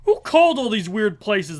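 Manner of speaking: mock outraged demand; Homer Simpson. Fan retelling dad checking phone bill, mock indignation. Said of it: "Homer's checking the phone".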